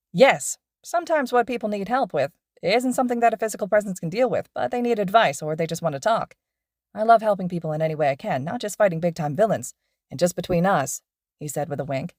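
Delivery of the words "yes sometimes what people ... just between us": lively pro hero explaining to students; cheerful teacher lecturing his two students on patrol; upbeat hero teacher. Acted. Mike Sensei explaining.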